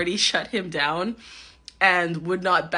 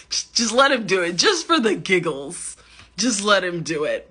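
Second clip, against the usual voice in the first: lightly voiced inner tempter, a bit louder; Darth Kermit; 2 semitones higher, 4 dB louder than usual. Speaker's inner dark side urging it for giggles, lightly hammed-up tempter. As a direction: egg them on as a half-hearted villainous inner voice. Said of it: "my inner Darth Kermit was coming out".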